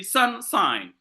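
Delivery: slow "sunshine", SUN and SHINE both held; two equal stresses. Shown as a demonstration. Teacher giving class spondees, both syllables of "sunshine" stressed. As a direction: give both halves of "sunshine" full weight. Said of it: "the same level of pronunciation".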